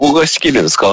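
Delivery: digitally degraded computer audio; bad-mic voice. Real, not acted. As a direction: ask it as if through a transceiver. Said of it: "その声で？".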